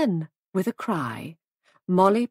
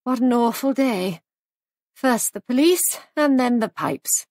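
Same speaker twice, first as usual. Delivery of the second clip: higher, louder complaint; groaning dismay; 4 semitones higher, 4 dB louder than usual. A narrator's reading. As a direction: lament it with raised voice. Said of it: "groaned Molly".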